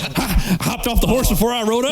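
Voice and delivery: Black Dynamite bravado. Retold or imitated. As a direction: boast it like a blaxploitation hero. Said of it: "It's like".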